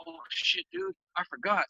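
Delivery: high-pitched drawn 'oh shit' of dawning dread; mock alarm at remembering; sudden realization. Drunk guy remembers work tomorrow, alarmed.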